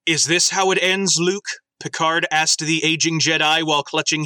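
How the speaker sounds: lightly dramatic story reading; story narration. Acted. Host reading the AI story to co-hosts, lightly dramatic narration. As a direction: read it like a faintly solemn fan fiction.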